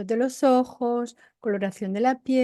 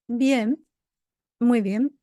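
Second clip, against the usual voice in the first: 1 flat reply; much slower than usual. Shown as a demonstration. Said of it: "Y tú me dices".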